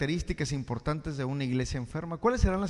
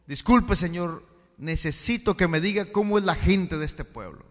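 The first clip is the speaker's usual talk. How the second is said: put-on calling out to old man; 3 semitones higher, 8 dB louder than usual. Forastero pregunta al anciano.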